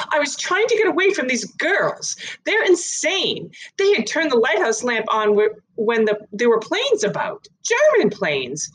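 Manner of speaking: high anxious woman protesting. Acted. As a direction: gabble it out, half out of breath. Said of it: "she panted".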